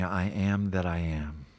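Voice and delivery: slow, spaced words for echoing; slow call to repeat. Shown as a demonstration. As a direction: lead it slowly for them to repeat. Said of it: "just repeat after me".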